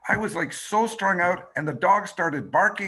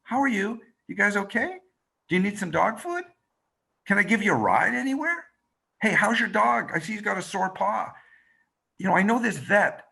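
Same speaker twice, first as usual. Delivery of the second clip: caring woman; 5 semitones higher than usual. Retold or imitated. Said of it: "gets out and says".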